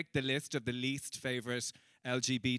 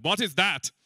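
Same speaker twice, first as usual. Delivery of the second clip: higher, much louder heckler voice; loud baffled demand; 5 semitones higher, 8 dB louder than usual. Retold or imitated. Man in Albanian audience calling out, loudly baffled. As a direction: call it out in blunt bafflement.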